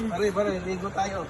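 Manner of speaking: put-on slurred drunk pleading; blackout drunk. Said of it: "Lasing ka, lasing ka".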